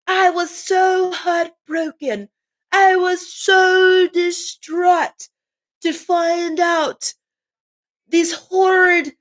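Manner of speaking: lightly voiced royal, slowed and overly sorry; playing dumb. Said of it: "They gonna play dumb".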